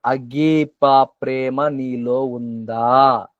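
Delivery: slow, drawn-out solemn question in a changed voice; voicing Jesus asking. Jesus gently questioning Peter, slow and solemn. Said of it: "యేసుక్రీస్తు వారు పేతురు గారిని అడిగిన ప్రశ్నే".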